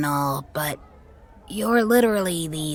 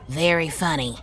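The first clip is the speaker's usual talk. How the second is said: dry; 2 semitones lower than usual. Acted. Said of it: "Risa responded dryly".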